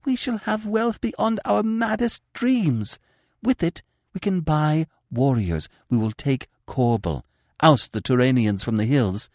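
high, intense, urgent persuasion; passionate pleading. Acted. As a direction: tempt him with passionate urgency. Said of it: "she argued passionately".

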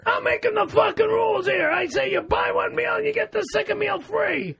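furious mock rant; angry shout. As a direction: bellow it like you run the place. Shouting argument over rules.

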